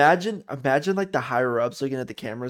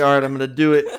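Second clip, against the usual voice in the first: mock pep talk; 4 dB louder, faster than usual. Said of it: "giving himself a pep talk".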